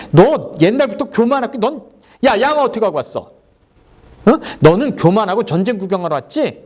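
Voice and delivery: big brother scolding his little brother. Acted. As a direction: chew him out like an annoyed older brother. Older brother scolding David.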